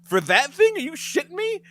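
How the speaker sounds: can't believe twenty seconds for that tiny bottle; incredulous. Retold or imitated. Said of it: "And I said".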